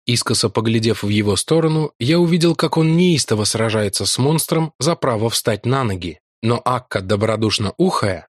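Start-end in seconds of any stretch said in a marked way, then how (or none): none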